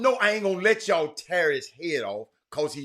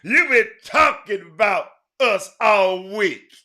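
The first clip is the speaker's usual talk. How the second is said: retold refusal; 3 semitones higher, 10 dB louder than usual. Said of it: "Eddie Robinson pushes him off".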